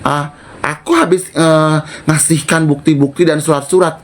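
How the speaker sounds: cornering her with questions; retold confrontation. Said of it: "Gue bilang".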